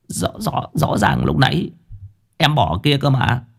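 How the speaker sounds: thin-voiced, halting self-defence; flustered henchman. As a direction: fumble for words, puzzled and uneasy. Henchman searches for missing charm.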